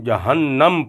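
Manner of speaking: جہنم with a doubled n and a on it; جہنم said as jahannam; correct pronunciation. Shown as a demonstration. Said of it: "جہنم نہیں".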